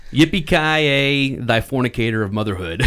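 dramatic movie line. Acted. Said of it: "And it says".

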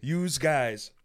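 lightly mocked Chicago accent; hardworking Chicago guy. Imitating dock workers, mild mock Chicago accent. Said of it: "Like, the hardworking guys".

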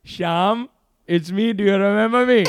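lightly put-on Indian voice; Indian accent. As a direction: pretend to be an Indian cousin on the line. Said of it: "Jack started doing an Indian voice".

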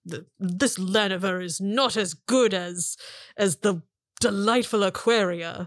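slow, disdainful elven man; disgusted elf. Acted. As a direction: pick through the words slowly, with distaste. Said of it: "looks at you with equal disgust".

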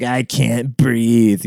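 drawn-out mock complaint; mocking complainer. Imagining the maskless clerk's excuse, slow mocking whine. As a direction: drag it out slowly, imitating a complainer. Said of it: "So she's probably like".

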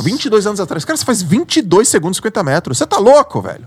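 loud, high pep talk to himself; self pep talk. Retold or imitated. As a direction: pump yourself up, shouting. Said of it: "Sabe o que eu falei pra mim? Briga". (nadador gritando consigo mesmo na piscina)

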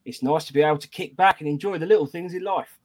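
hammed-up Aussie greeting into a review read; botched Australian accent; bad Australian accent. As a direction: read it in a shaky attempt at Australian. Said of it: "how shit he is at Australian accents".

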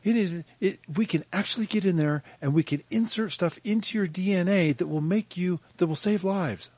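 high-pitched mock glee; mock giddy. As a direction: imitate someone gleefully tickled by his own idea. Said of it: "he's all giddy".

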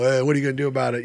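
quick cocky taunt. Retold or imitated. Linebacker taunts the jeering fans, cocky and quick. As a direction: toss it off, daring them. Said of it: "kinda, you know".

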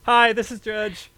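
loud, high, slow phone greeting; mock phone call. Friend pretending to make a call as judge, hammed-up greeting.

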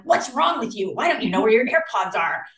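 half-hearted mock yell of a scolding neighbor; mock angry neighbor yelling. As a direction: bark it like a cranky neighbor over the fence, mildly. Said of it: "yelling over the fence".

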